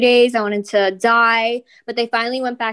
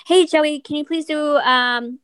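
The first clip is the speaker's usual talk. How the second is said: higher, put-on fan voice; mock fan request voice; 5 semitones higher, slower than usual. Fan voice pretending to request a cameo, put-on and high. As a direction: play a silly fan asking a favour. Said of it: "why are we talking like that".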